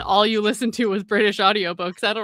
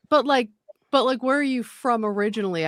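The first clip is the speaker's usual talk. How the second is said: pressing question; 4 semitones higher, 4 dB louder than usual. Retold or imitated. Maintenance guy pressing the question.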